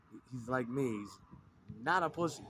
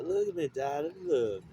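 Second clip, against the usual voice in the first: louder, higher acted call to a darling; sudden raised mock endearment; acted plea; 4 semitones higher, 6 dB louder than usual. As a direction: break out of the verse into a raised cry. Acted outburst inside the verse.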